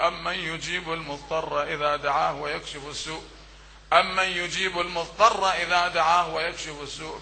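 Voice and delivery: soft, low murmured supplication; quiet prayer. Acted. Leading mourners in prayer, a soft murmured supplication. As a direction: pray it softly with the crowd.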